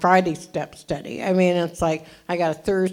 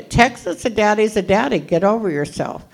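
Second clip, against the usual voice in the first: louder, punchier mock Texan; lightly voiced Texan old-timer; imitating Texas voice; 3 semitones higher, 4 dB louder than usual. Telling the crowd what Texas said, in a punchy mock voice. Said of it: "in California".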